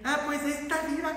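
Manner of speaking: soft, quick mock lament; hushed complaint in someone else's voice; retold resigned parishioner. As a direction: imitate a long-suffering believer. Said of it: "muchos de ustedes dicen".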